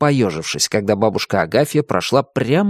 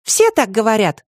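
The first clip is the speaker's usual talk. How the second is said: heated; 11 semitones higher than usual. A narrator's reading. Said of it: "не менее запальчиво заявила Катя".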